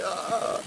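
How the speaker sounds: soft retold groan of despair; quiet, half-hearted cry of exhaustion; mock whimper. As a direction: let out a small imitated wail. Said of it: "I felt like crying".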